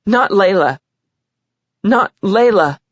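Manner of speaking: high, upset, near sobbing; tearful confession. A narrator's reading. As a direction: confess through tears.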